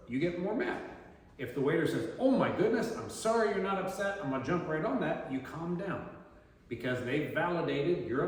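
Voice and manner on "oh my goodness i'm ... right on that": higher, louder, eager sympathetic gush; eager apology. Retold or imitated. Waiter to unhappy diner, eager apology. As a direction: rush in with concern to fix it.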